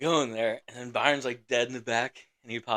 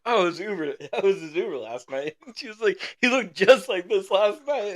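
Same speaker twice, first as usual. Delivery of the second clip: higher-pitched mimicked woman's voice; animated lady; 8 semitones higher, 5 dB louder than usual. Lady explains she drove him last night, high and animated. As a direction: exclaim it high, imitating her.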